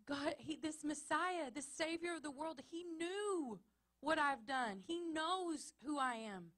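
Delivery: the woman at the well, breathless with news; woman's excited testimony. Acted. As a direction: call the town to come see. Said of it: "to say".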